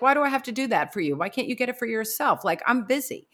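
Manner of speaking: quick, mildly irritated mock protest; imagined grumbling thoughts. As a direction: voice a husband's impatient inner complaint. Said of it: "He's thinking to himself".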